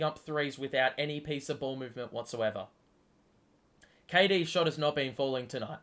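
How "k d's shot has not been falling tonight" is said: voice cracking. Real, not acted. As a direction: voice cracks mid-sentence. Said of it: "So, voice crack".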